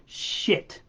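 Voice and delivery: a quiet aside curse; muttered swear. Real, not acted. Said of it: "pardon my language".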